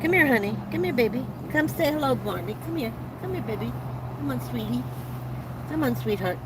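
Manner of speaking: soft coaxing voice calling a dog; coaxing a sick dog toward the camera, softly; coaxing pet talk. Real, not acted. Coaxing her dog to come over.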